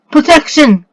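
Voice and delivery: high, urgent mock scream. A narrator's reading. Boy shields himself and his sister, high screamed spell. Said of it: "screamed Robert".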